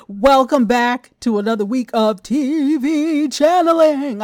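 a hint of a Halloween ghoul greeting the audience; ghoulish voice. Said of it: "That did sound ghoulish".

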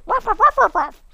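very high, quick ruffs; high-pitched barking reply; dog barking back. Acted. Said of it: "And then he goes".

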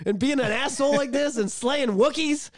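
high-pitched, incredulous protest; worked-up, pleading denial; impassioned disbelief. Retold or imitated. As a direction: retell a heartbroken friend's refusal to believe. Voices Ahsoka's disbelief at Vader.

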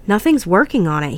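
mild frustration; a touch of exasperation in the voice; frustrated. Acted. Friend fails to get the iPod playing, mildly frustrated. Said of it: "he said, frustrated".

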